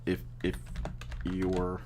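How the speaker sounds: tipsy slow slurred speech. Real, not acted. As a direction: talk like you've had a few. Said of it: "I have been drinking if you can't tell".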